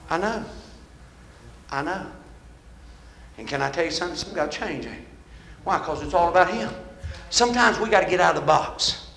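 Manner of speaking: earnest, subdued preaching. Real, not acted. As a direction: bring it down and speak to their hearts. Preacher turns quiet and earnest.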